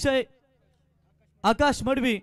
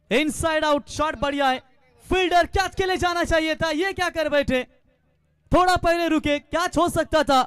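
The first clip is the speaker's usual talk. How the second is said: higher pitched, animated play-by-play; urgent live call of a dropped chance; excited cricket commentary; 5 semitones higher than usual. Real, not acted. Near catch then boundary live. (जोशीली cricket commentary)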